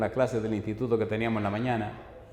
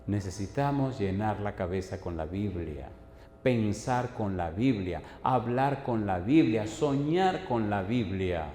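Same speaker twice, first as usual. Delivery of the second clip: slow, lower preaching litany; exhortación pausada; 3 semitones lower, slower than usual. Acted. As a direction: weigh each phrase, drawing it out. Slow exhortation in repeated phrases. (exhortación lenta y solemne)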